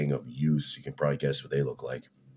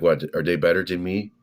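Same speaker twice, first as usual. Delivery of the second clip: put-on half-hearted French accent, a little higher and louder; badly faked French accent; 4 semitones higher, 6 dB louder than usual. Quoting the indignant French lady client, poor French accent. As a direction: attempt a French accent and barely manage it. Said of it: "I can't do a French accent".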